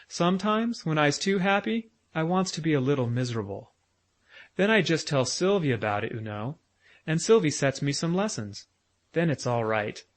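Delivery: put-on high little boy's voice, chatty; a lisping small boy musing about lessons; small child Bruno.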